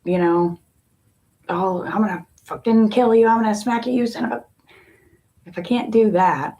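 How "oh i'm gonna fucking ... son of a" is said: mock angry yelling. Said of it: "and yell and scream at it".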